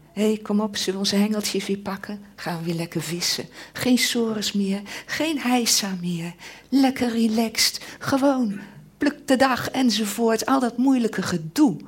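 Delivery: breezy, upbeat mock carefree talk; carefree people. Preacher voicing carefree disciples, lightly mocking and cheery. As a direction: brush off the hard stuff, light and cheery. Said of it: "Mensen die nu zoiets hebben van".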